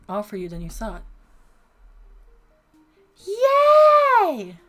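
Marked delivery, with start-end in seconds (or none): 3.3-4.6 very high, loud cheer; excited cheer. Real, not acted. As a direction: shout for joy. Cheering at game event.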